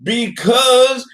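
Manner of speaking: drawn-out, high exasperated protest; slow, high-pitched insistence. Real, not acted. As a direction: stretch out every word in exasperation. Exasperated rebuttal in heated argument.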